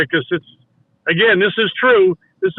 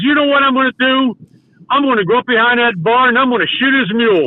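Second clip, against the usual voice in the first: mock-mad vow, a little raised; retold anger; 3 semitones higher than usual. Angry friend in the car plotting payback on landowner, mildly mock mad. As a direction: imitate an angry man announcing his revenge. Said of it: "he's mad".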